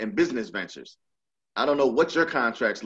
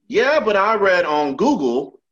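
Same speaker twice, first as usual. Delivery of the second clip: higher, louder dismissive brag; mock Trump; 6 semitones higher, 7 dB louder than usual. Trump brushing off an expert, higher and louder. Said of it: "And nigga, I have a P H D in this".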